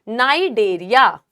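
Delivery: "नाइडेरिया" slowly, starting on the N; silent C, drawn out. Shown as a demonstration. Teacher repeating the name for students, slow "नाइडेरिया" with silent C. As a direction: slowly model "नाइडेरिया" without any C sound. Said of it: "नाइडेरिया को हम बोलते हैं".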